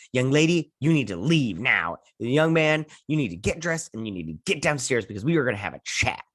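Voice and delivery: mildly hammed-up stern orders; mock-stern, with punched key words; scolding mom. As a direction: act a mom laying down the law. Mom orders the teens around.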